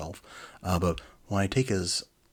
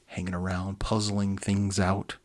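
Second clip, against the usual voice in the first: usual speaking voice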